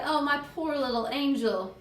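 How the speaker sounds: doting motherly dismay; mother's anguished cry. Acted. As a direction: lament over the hurt little one. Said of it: "my mother cried".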